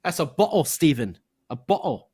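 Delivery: mock-British bottle with the t dropped; lightly hammed-up British accent; bad British accent. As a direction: insist in a fake British accent. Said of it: "instead of butthole".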